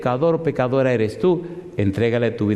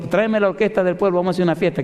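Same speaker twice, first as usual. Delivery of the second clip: joyful father; 7 semitones higher, much faster than usual. Retold or imitated. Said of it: "le dijo".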